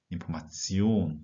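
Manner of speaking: Information very slow, TION stressed; end stress. Shown as a demonstration. Teacher models Information, stress on the ending. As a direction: spell it out slowly and land on TION. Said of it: "어미의 강세를 두고 읽으셔야 합니다".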